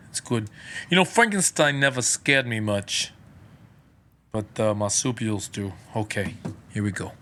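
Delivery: lightly done celebrity impression; a hint of a film star's halting accent; Christopher Walken. Host warming up the mic, light Walken impression. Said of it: "that's my best Christopher Walken".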